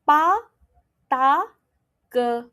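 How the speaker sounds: Pa, ta, ke with no puff of air, crisp and firm; unaspirated p t k. Shown as a demonstration. Teacher demonstrating first row to students, unaspirated. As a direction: say Pa, ta, ke clean, no breath. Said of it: "I repeat".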